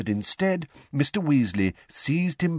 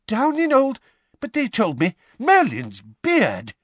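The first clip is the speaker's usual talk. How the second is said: high, louder stunned exclamation; shocked outburst; 13 semitones higher, 5 dB louder than usual. A narrator's reading. Mr Weasley hearing the courtroom changed, high and shocked. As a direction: gasp it out in disbelief.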